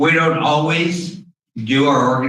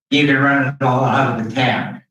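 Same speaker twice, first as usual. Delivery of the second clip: muffled behind a mask; through a face mask; 2 semitones higher than usual. Real, not acted. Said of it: "it's hard to, after a while, talk through a mask".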